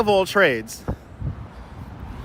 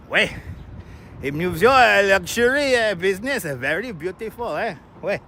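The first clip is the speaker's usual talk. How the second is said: mock French accent; 2 semitones higher than usual. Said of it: "Do you like my French accent?".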